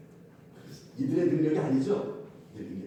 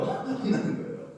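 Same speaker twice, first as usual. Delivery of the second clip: 혼나는 거예요 said through a laugh, slower; laughing repeat; slower than usual. Shown as a demonstration. Pastor laughs as he repeats 혼나는 거예요 to the flock.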